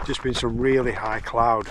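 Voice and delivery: stiff frozen lips; talking through numb lips; cold lips. Real, not acted. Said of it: "my lips are freezing up".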